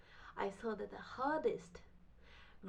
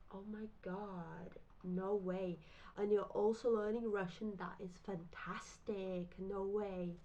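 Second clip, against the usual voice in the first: mock amazement. Classmates marvel at all the languages, mock amazed. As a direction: imitate an impressed crowd, stretching the words. Everyone reacting to the teller's languages.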